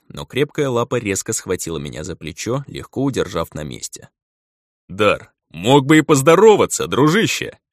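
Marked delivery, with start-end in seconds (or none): 4.9-7.6 hurt tone. A narrator's reading. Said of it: "с нотками обиды произнёс он".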